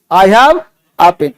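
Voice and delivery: a said short as "uh", very slowly; very slow model. Shown as a demonstration. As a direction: spell it out, a as "uh". (बहुत धीरे, a को "अ" बोलकर)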